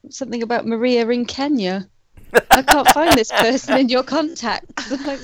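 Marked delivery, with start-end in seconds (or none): 2.5-4.9 loud robotic assistant voice; Siri voice imitation. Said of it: "it kept saying".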